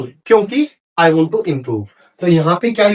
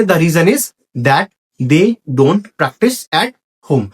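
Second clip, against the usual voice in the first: slow, phrase by phrase with pauses; slow model sentence; 3 semitones lower, much slower than usual. Shown as a demonstration. Teacher showing students how to start the answer, slow model sentence. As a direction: model it slowly for students to follow.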